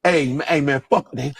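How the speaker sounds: lightly put-on Black American accent. Shown as a demonstration. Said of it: "that Black American accent".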